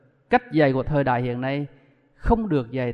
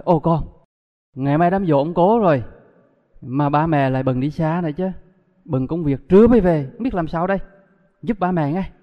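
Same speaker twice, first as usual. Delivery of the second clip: worried parent asking help; 5 dB louder than usual. Retold or imitated. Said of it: "Nói".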